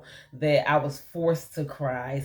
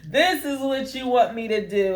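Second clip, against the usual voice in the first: laughing disbelief; 3 semitones higher, slower than usual. Retold or imitated. Laughing disbelief quoting herself to God.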